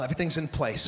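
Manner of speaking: usual speaking voice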